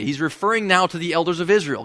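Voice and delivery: ordinary delivery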